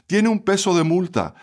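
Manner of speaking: lightly voiced cashier announcing a charge; curt cashier. A narrator's reading. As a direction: read it off as an official statement. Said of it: "con voz breve leyó".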